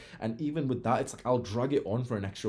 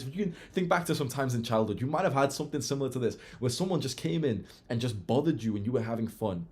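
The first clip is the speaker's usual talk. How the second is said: ordinary talk, nothing marked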